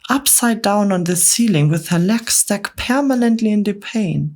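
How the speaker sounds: a nervous spider recalling a horror; fretful Miss Spider. Acted. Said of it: "Miss Spider cried".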